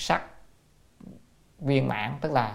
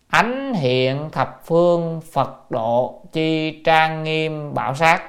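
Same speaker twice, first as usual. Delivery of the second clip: slow, measured classical recitation; scripture recitation; 3 semitones higher, much slower than usual. Real, not acted. Teacher quotes the line before glossing it, slow recitation. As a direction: draw out each syllable of the text.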